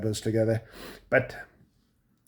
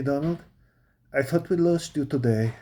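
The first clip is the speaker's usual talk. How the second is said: lightly mimicked thick European accent; wife's foreign accent; 3 semitones higher than usual. Wife tells husband she thought she lost him, mock foreign accent. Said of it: "That accent is still th".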